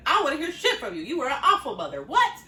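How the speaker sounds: high, loud mock yell at mom, breaking into laughs; hammed-up outburst, half laughing; mock angry yell. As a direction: daughter yelling at her mother, hammed-up and high. Confronting her awful mother.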